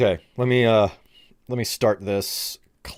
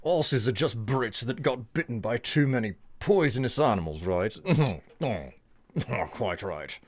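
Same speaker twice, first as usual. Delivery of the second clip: put-on drifting British accent; 2 semitones higher than usual. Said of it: "swinging wildly between Aussie, New Zealander, and various British accents".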